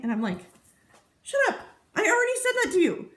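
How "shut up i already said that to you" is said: much higher, playfully annoyed; mock exasperated retort. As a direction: squeal it in fake outrage at him.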